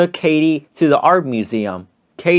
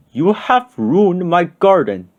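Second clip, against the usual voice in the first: slow, scolding mother voice; angry shout; 3 semitones higher, slower than usual. Acted. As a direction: draw out the scolding. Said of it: "she shouted".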